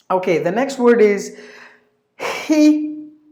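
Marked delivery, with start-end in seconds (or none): 2.2-3.2 "hypocrite" as HI, puh, crit, long gaps; high, drawn-out first syllable in "hypocrite". Shown as a demonstration. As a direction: break "hypocrite" into three slow parts. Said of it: "Three syllables".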